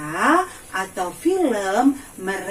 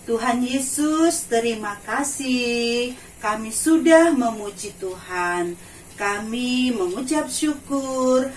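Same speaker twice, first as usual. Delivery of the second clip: prayer voice. Acted. Leads children in prayer.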